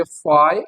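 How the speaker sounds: फाय alone as "fie", cut off before the schwa; separated first part. Shown as a demonstration. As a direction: say just the diphthong फाय on its own. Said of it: "अगर इसको हम separately ऐसे ही बोलेंगे". (फाय अलग से, अकेला)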